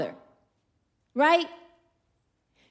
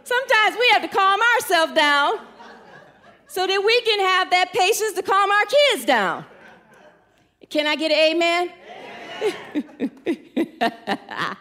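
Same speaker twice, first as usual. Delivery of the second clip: laughing; 6 semitones higher, 4 dB louder than usual. Real, not acted. Laughing at the Walmart story.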